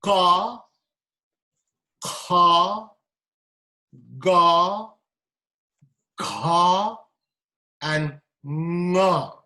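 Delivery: ka, kha, ga, gha, nga said clearly from the throat; each syllable sounded firmly and apart; velar consonants demo. Shown as a demonstration. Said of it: "I repeat".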